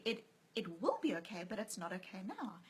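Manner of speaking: soft, nearly whispered "okay now"; gentle nurse, hushed. Retold or imitated. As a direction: quietly tell a mother the truth. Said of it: "So she said to me".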